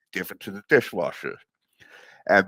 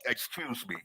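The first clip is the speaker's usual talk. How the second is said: a soft, polite "Excuse me"; 12 dB quieter than usual. Retold or imitated. Busboy politely asking the server to move, softly. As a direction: ask to pass, softly and politely. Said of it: "I, I loud".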